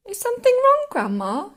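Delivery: high-pitched, sweetly polite enquiry; polite asking. A narrator's reading. George to Grandma hanging in mid-air, polite question. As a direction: start high and loud, then settle politely. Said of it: "George asked her politely".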